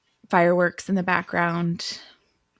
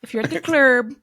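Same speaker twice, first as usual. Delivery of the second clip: exaggerated high-pitched hype to the girlies; mock girly call; 8 semitones higher than usual. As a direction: ham up the club-girl call. Playing up a book club call.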